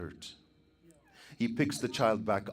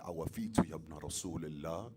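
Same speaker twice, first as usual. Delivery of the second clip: faint and failing, soft; a weak, fading murmur; 4 semitones lower, 6 dB quieter than usual. Acted. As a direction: speak like a dying man with little breath left. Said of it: "in a weak voice".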